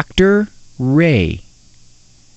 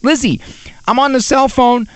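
higher, mildly exasperated imitated plea; urgent pleading; 6 semitones higher than usual. Uncle Ron on a cell phone to the daughter, mock urgent. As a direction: try to break into a child's chatter. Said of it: "I can hear Uncle Ron saying".

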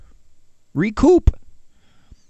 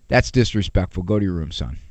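calm discipline; 9 semitones lower, 3 dB quieter, faster than usual. Shown as a demonstration. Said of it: "It's not".

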